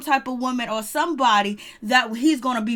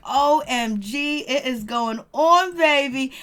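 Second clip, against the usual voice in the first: slow, drawn-out louder gasp of gossip; OMG reaction; 4 dB louder, slower than usual. Retold or imitated. Reacting to the trailer, slow excited OMG. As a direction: savor the drama, stretched out. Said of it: "I was just like".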